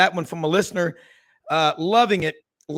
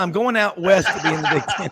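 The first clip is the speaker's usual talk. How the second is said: laughing mock quote. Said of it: "doesn't that sound".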